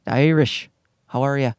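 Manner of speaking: showing his own Newfoundland accent on "The Irish. How are ya?"; plain home accent, shown as a demo. Shown as a demonstration. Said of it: "Mine is this".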